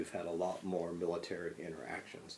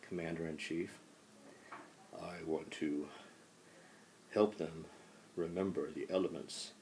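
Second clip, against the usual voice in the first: a hint of a solemn statesman, a little softer and measured; President Washington; 6 dB quieter than usual. Teacher as Washington rallying students against a threat, lightly voiced. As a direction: announce yourself grandly but only lightly voiced. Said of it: "President Washington wants to say something".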